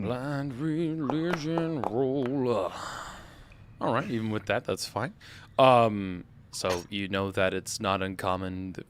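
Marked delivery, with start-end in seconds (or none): 0.0-2.7 announcer voice. Acted. GM announcing the roll dramatically.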